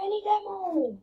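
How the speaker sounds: muttered under the breath. Real, not acted. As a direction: mutter it to yourself, deflated. Muttering after a call for ammo.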